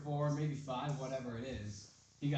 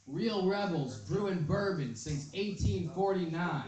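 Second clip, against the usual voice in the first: higher, slower ad-read voice; mock ad slogan; 5 semitones higher, slower than usual. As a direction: read it like a proud ad. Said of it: "and it's like".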